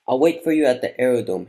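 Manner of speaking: loud, bright phone greeting. A narrator's reading. Hilda arranging an airport meeting on the phone, bright voice. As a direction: call it out brightly, with a lift. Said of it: "Her voice was bright".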